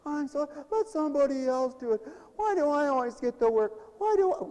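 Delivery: hammed-up grumbling church worker; mock whining. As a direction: complain like the overworked volunteer. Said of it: "our famous thing".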